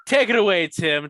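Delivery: host voice. Pretend. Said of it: "handing over like a host".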